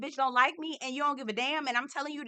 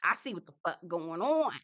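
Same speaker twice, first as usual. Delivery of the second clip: knowing look voiced; 6 semitones lower, faster than usual. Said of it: "Allison give him this look like".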